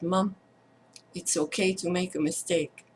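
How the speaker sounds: quietly comfort, one phrase at a time; hushed, tender retelling of a child's forgiveness; gentle reassurance. Retold or imitated. Child comforts mother after her confession.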